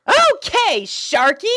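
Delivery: very high, loud and bright-eyed; a chirpy girl pony puzzled by her steed; squeaky cheerful pony; pony princess voice. Acted. Pony character replies.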